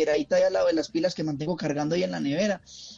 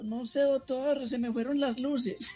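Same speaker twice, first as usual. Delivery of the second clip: sickly tree voice; 6 semitones higher, 6 dB quieter, slower than usual. Acted. Tree answers doctor in joke.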